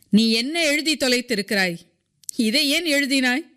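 understated scolding by an official; angry shout. A narrator's reading. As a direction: snap at her with bared teeth. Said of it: "பல்லை இளித்துக்கொண்டு கத்தினான்".

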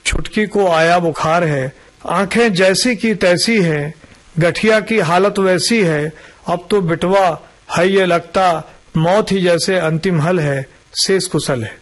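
measured verse recital with pauses between lines; poem recitation. Acted. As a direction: recite it as rhymed verse, line by line. Recites his rhyming verse.

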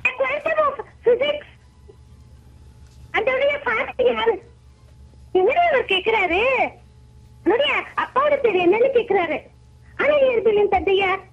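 put-on very high-pitched little kid voice; put-on childish squeak, far above own pitch. Shown as a demonstration. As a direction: speak the dialogue like a small child. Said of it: "குழந்தை மாதிரி பேசுறது".

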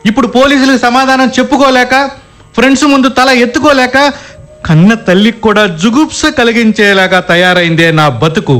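tearful lament. Acted. Husband laments his shame to wife, tearful. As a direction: lament a ruined life to her. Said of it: "ఆడదానిలా ఏడుపేంటి?".

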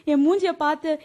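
crying reproach to the husband who changed; tearful reproach. Acted. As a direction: plead through tears with a cold husband. Wife reproaches husband in quarrel.

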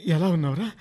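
tearful. Acted. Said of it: "ఆ కళ్ళు తుడుచుకోండి".

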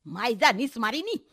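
a touch of gritted-teeth irritation; through gritted teeth. Acted. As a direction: say it crossly through clenched teeth. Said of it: "ઈ દાંત કચકચાવતા બોલી". (દાંત કચકચાવીને, થોડી ખીજમાં)

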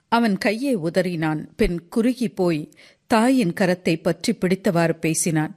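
ordinary delivery

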